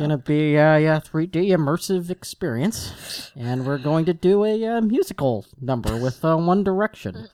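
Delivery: half-baked impression of a halting filmmaker; hesitant filmmaker announcing a project; lightly voiced director, full of uhs; George Lucas. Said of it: "bust out my George Lucas half-baked impression".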